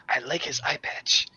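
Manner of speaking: a soft, half-hearted stage whisper; mock whisper. Player teases a friend in passing, soft mock whisper. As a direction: lean in and murmur the joke. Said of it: "I whisper to him".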